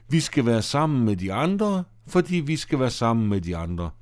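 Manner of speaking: sing-song mocking echo of her words; mocking repeat. Henry mocking Laura by echoing her, teasing. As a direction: parrot her to make fun of her. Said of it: "Du skal altid gøre nar af mig".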